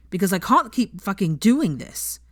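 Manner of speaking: loud. Acted. Draco at breaking point.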